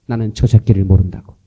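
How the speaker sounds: a loud, swearing denial shouted at the accusers; cursing denial. Retold or imitated. Peter loudly cursing that he never knew Jesus, angry shout. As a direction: spit out the curse as Peter denying his master. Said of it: "세 번째는 저주하며 부인했다고".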